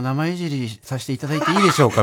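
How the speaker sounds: humble staff asking permission, laughing; overly polite request. Retold or imitated. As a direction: ask ever so politely. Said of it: "みたいな".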